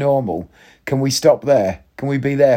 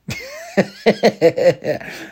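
high fond chuckle; fond laugh; 5 semitones higher than usual. Real, not acted. Recalling his son at the school gate, a fond laugh. Laughs at son's imagined thought.

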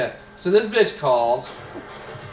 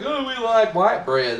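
higher, slow dopey redneck voice; mock redneck customer; 7 semitones higher than usual. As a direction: drag it out like a clueless customer. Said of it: "rednecks that come in are like".

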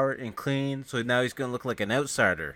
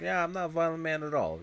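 higher, lightly acted agreement; retold higher-pitched echo; 5 semitones higher, 4 dB quieter than usual. The speaker echoes the denial to the cop, higher-voiced.

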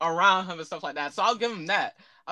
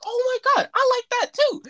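put-on high, loud gushing girl voice; mock girl gushing in a much higher voice; girly gush; 5 dB louder than usual. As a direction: squeal it like a starstruck girl. Mimicking the girl's excited reply.

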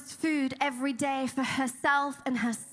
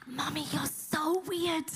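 lightly voiced child, softer and drawn out; slow, quieter imitation of a puzzled daughter; daughter's remark; 4 dB quieter, slower than usual. Daughter to praying mother in the dark, lightly imitated puzzlement.

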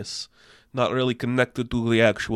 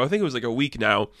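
ordinary talk, nothing marked

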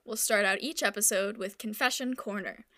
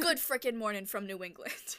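thick Boston accent impression; imitating a local guy's thick New England accent. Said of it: "this is my impression".

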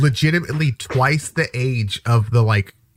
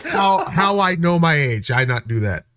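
put-on foreign student; 4 semitones higher than usual. Student answering the dorm RA's complaint, halting and affronted. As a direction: protest in halting broken English. Playing Manute Bol in broken English.

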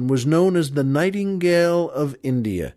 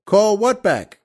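higher, puzzled punchline question; feigned innocence; 6 semitones higher, 4 dB louder, slower than usual. Acted. Boater asked to whistle the lobsters back, feigning innocence. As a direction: play dumb with a raised pitch.

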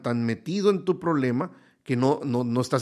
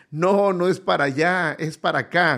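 higher, louder call to the road crew; calling out from a hill; 4 semitones higher, 4 dB louder than usual. Retold or imitated. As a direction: shout the correction down from the hill. Guy on hill calls to builders. (grito desde el cerro, más agudo y fuerte)

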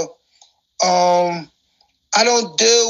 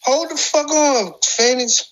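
retold command; 6 semitones higher than usual. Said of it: "I said".

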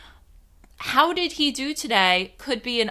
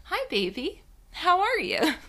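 toned-down hello; 9 semitones higher than usual. Shown as a demonstration. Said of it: "tone it down and be like".

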